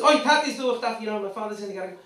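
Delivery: high, loud mock calling-out; imitated kid's yell. Boy telling a predator his father's come, acted yell. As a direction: call out loudly as the kid did. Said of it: "and just yell loud".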